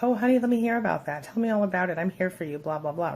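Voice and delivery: early-relationship partner cooing over your bad day; mock sweet concern. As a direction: imitate a doting partner, lightly. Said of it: "they were like".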